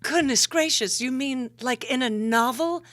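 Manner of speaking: high, theatrical diva; grand, gasping sultry diva; vamp voice. Pretend. Vamp character replies.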